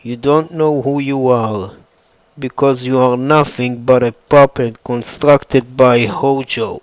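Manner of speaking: a hint of a menacing villain; Sephiroth taunting. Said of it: "Sephiroth trying to take advantage".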